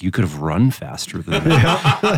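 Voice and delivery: deadpan. Retold or imitated. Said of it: "she just looked at me in deadpan".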